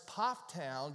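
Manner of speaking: Pofftown said as one local word, POFF-town; local pronunciation. Shown as a demonstration. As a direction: say Pofftown slowly, stressing a short POFF. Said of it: "Get that right".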